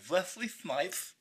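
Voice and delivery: slow, drawn-out mock vampire voice. Quoting a TV show vampire, slow vampire voice. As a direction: stretch the name out like a vampire. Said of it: "they say it in the vampire voice".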